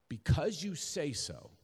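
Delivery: "you" lifted and held, slow delivery; stress on YOU. Shown as a demonstration. Preacher quoting Peter's answer to Jesus, stress on "you". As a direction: lean slowly on the word "you". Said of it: "Emphasis on you".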